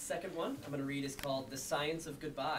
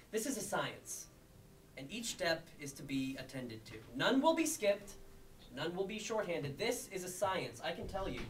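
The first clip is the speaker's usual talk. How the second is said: emphatic mock-lecture with deliberate pauses; spoken-word poem. Poet explaining goodbye as a science, emphatic spoken-word delivery. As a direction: lift and punch the openings, drop away on the asides.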